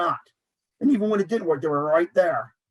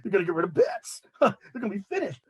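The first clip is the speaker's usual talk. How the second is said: gloating, laughing. Retold or imitated. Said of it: "Michael Kay was gloating".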